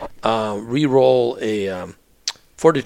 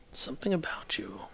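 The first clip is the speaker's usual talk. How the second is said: whisper; 3 semitones higher, 13 dB quieter than usual. Acted. GM whispers as NPC.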